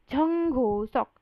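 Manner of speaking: झंग हो सॉक slowly, breathy झ at the start; Korean Jung Hoseok. Shown as a demonstration. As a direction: spell out झंग हो सॉक syllable by syllable. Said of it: "तो आपको क्या बोलना है?". (झंग हो सॉक धीरे, साफ़ कोरियन उच्चारण में)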